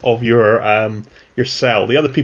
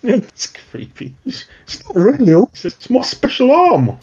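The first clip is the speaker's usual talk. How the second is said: higher mutant voice; 11 semitones higher than usual. Acted. Mutant pleading with Osric to keep his arm, higher voice. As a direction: lift the pitch, whiny and defensive.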